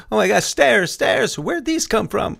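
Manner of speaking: high, put-on astonishment without real volume; mock yelling back. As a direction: feign shock at discovering the obvious. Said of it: "Start yelling back at 'em".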